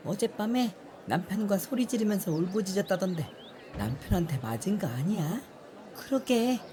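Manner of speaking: gossiping villager. Acted.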